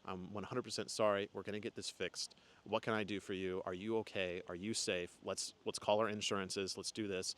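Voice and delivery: apologizing to the other driver after a crash, softly calm; calm reassurance. Retold or imitated. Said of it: "and I was just calm".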